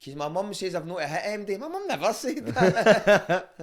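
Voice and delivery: high, loud, laughing through it. Real, not acted. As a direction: crack up while telling it. Laughing retelling fight story.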